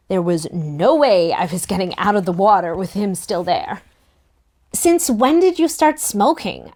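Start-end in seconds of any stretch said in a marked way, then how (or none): 4.7-6.7 sharp accusing question, pitched up. A narrator's reading. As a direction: call him out on it. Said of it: "I asked accusingly".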